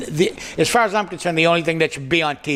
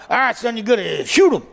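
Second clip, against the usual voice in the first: lightly voiced swamp dad; 5 semitones higher than usual. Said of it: "And he's going".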